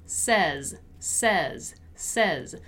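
"says" as sez, with a short E; isolated "says", each one falling in pitch; pronunciation demo. Shown as a demonstration. Teacher drills the word says for students, pronunciation demo. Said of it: "which is basically like this".

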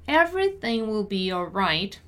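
measured, careful teaching read; deliberate pronunciation model. Shown as a demonstration. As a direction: say it unhurriedly for learners. Teacher models sentence slowly first.

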